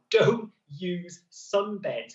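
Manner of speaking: slow, emphatic doctor's warning; lightly put-on serious GP voice, word by word; big boy GP voice. Shown as a demonstration. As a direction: spell it out slowly like a firm family doctor. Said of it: "put my big boy G P voice on now".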